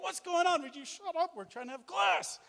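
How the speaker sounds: high, lively mock irritation; mock annoyed scolding. Classmates telling the excited student to shut up. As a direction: tell him off playfully. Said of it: "And we're like".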